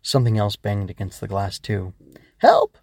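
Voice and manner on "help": tiny, very high, loud squeal for help; high-pitched little creature yelp; small voice crying out. Acted. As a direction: cry out as a tiny bug. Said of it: "a small voice cried out".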